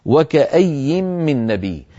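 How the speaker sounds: slow chanted recitation of the verse; slow tajwid recitation; Quran recitation. Shown as a demonstration. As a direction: recite it slowly and melodically. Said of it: "قوله تعالى".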